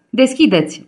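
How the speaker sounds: almost howling, but held back; near yell. A narrator's reading. Tonio pounding on the neighbour's door, near yell. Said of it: "urlă aproape Tonio".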